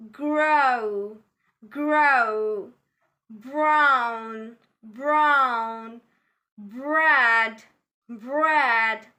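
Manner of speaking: "grow, brown, bread" drawn out with R sounded after the consonant; pronounced R. Shown as a demonstration. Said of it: "We do pronounce R after consonant".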